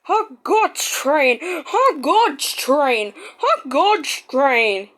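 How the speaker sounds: slow, dragged-out grumble; sulky engine grumbling slowly. Acted. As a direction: grumble each word slowly. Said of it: "he grumbled".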